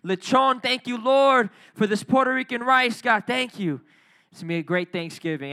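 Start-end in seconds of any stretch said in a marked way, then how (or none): 0.0-3.8 loud, high, playful thanks over food; mock grateful prayer. Pastor acting his own Thanksgiving prayer, loud and joyful. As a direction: pray over the plate with gusto. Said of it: "be thanking God".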